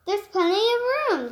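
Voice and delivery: jolly, carefree; laughing. Acted. Bug welcomes the bird, laughing. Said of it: "laughed the bug".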